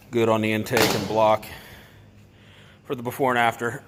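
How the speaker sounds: slightly out of breath, breathy pauses. Real, not acted. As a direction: talk while catching your breath. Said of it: "Excuse me if I sound like I'm out of breath".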